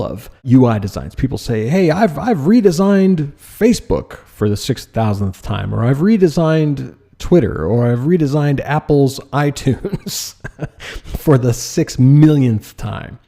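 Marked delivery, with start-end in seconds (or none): 1.7-13.2 sarcastic. Retold or imitated. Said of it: "I'm being sarcastic".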